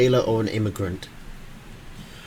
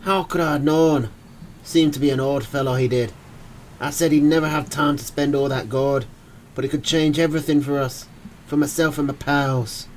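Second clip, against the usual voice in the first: put-on Irish accent; 3 semitones higher than usual. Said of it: "in a thick Irish accent".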